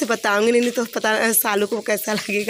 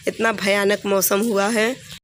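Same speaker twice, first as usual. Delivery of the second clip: slow emphatic repeat; slower than usual. Real, not acted. Vlogger stresses to viewers how bad the storm is, slow and emphatic. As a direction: slowly lean on इतना भयानक मौसम हुआ है, stretching each word.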